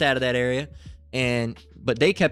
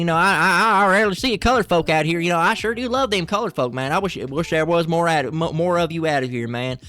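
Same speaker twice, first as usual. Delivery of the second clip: redneck voice; 2 semitones higher than usual. Retold or imitated. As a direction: play a clumsy, friendly country redneck. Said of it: "they're rednecks".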